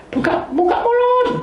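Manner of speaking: put-on high, sing-song coaxing like to a child. Wife coaxing her sick husband, high and sing-song.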